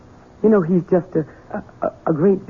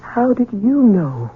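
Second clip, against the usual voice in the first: stunned disbelief; 4 semitones higher, slower than usual. Acted. Housekeeper stunned by revelation.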